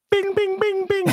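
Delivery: high bell-imitation bings; alarm bell chime. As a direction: ring it out like a warning bell. Mimicking alarm bells going off.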